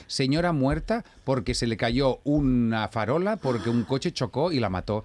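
slow, deliberate news delivery; mock headline reading. Mother forwards a news story, slow mock headline reading. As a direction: spell out the headline slowly.

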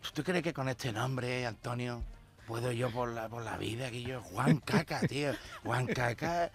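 soft, dejected complaint; a touch of self-pity, quiet; mild gloomy lament. Acted. Sad Juan complains. (Juan Caca quejándose, abatido y en voz baja)

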